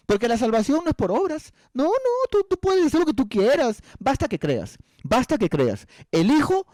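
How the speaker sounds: very high, swooping mimicry; mock breezy dismissal. Coworker excusing everything by faith, mockingly dismissive. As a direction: parody someone waving every duty away in a squeaky-high voice.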